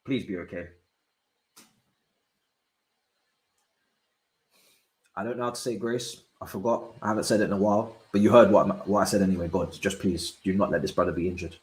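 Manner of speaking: soft, hushed worried prayer; anxious whispered hope; quiet prayer. Real, not acted. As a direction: murmur a plea to God. Praying for player.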